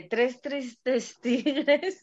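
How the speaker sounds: slow, careful tongue twister breaking into a laugh; tongue twister, slowly. Shown as a demonstration. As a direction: pick through "tres tristes tigres" word by word. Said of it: "el típico es el que nunca me sale". (trabalenguas dicho muy despacio, con risa)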